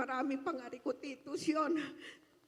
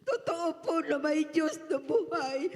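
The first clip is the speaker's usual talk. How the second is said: loud, laughing declaration; half-crying, half-laughing joy; tearful laughing praise; laughing through tears; 2 semitones higher, 7 dB louder than usual. Real, not acted. Emotional testimony, laughing.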